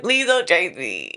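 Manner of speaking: mock pleading. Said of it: "Oh, I would run away, like".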